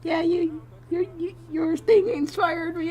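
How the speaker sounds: lightly voiced fan in a high pitch; high, halting mock fan voice; imitated fan. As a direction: quote a gushing fan, stumbling over words. Voicing the touched fan's message.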